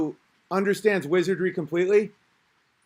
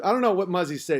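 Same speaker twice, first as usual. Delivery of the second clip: usual speaking voice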